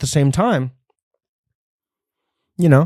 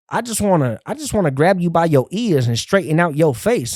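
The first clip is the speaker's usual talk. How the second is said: imitating the lady; 4 semitones higher than usual. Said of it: "she said".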